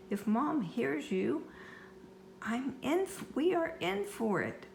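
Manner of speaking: high, urgent pleading to the monster; boy urging the monster to hush, high and urgent; urgent warning. Acted. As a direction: warn it in a rising panic.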